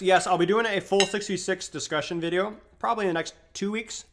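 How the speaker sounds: talking while eating; mouth full. Real, not acted. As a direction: speak around a mouthful of food. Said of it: "Sorry for talking with my mouth full".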